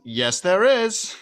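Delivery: high, loud and very slow; hammed-up Elf insisting; mock Elf. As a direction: drag it out stubbornly. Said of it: "and he's".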